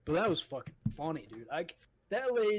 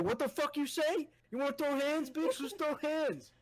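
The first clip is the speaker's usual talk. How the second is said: hammed-up tough guy; 10 semitones higher than usual. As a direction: ham up a brawler picking a fight. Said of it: "He was like".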